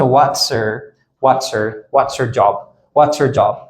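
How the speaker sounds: "What's her" linked as "whatser"; connected speech. Shown as a demonstration. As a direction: drop the H of her.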